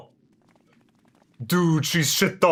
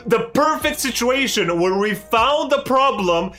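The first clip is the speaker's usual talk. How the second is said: much higher, heated scolding rant; angry rant; 8 semitones higher than usual. Real, not acted. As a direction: tear into her for walking away. Ranting at the character Wuk Lamat.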